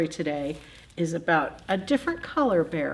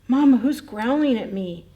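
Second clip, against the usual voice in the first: put-on baby bear voice; 5 semitones higher, 8 dB louder than usual.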